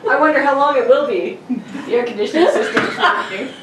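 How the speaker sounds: playful suggested line reading, half laughing; mock alternate reading. Shown as a demonstration. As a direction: reread it with a laugh breaking through. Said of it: "It'd be funny if you read it as".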